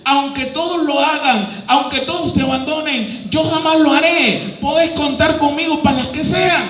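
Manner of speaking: lightly voiced Peter, proud and sure; Peter's vow. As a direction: voice Peter swearing he'll never leave. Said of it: "Pedro dijo a Jesús".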